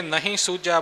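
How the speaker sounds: ਨਹੀਂ with a short first vowel; mispronunciation shown. Shown as a demonstration. Teacher showing the common slip, ਨਹੀਂ with short "na". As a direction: clip ਨਹੀਂ to "na-heen". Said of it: "ਬੋਲ ਜਾਂਦੇ ਨੇ".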